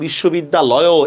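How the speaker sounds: বিশ্ববিদ্যালয়ও with an added "o" sounded after loy; wrong final vowel. Shown as a demonstration. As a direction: end বিশ্ববিদ্যালয়ও on a separate, audible "o". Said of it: "এভাবে বলি না".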